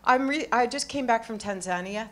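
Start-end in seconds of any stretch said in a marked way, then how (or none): 1.4-2.1 Tanzania with stress on ZAN; local pronunciation. Shown as a demonstration. Traveler just back showing off to audience, local pronunciation of Tanzania. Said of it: "That's how they say it there".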